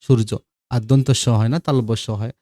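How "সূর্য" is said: সূর্য said shurjo with the স as sh; spoken pronunciation. Shown as a demonstration. Teacher shows how a word sounds when spoken: সূর্য said shurjo. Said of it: "উচ্চারণ করলে এরকম".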